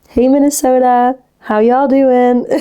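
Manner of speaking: playful mock American greeting; hammed-up American "how y'all doing"; American accent. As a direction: greet them with a put-on American twang. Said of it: "Guys, we've got an American".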